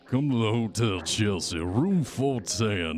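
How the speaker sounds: lightly voiced wary phone caller; Jackson Elias. Hunted caller summoning help to a hotel, lightly put-on voice. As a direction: give guarded instructions, lightly in character.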